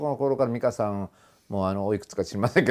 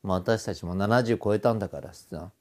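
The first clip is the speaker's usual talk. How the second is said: 歌手のように優しく諭す; 4 semitones lower than usual. Retold or imitated. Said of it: "諭すように。". (低めに諭すものまね)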